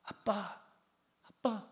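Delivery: whisper-soft pleading, like kneeling in prayer; lightly acted, quiet call to Daddy; soft crying out. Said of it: "외칩니다".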